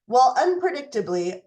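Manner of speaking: normal talking voice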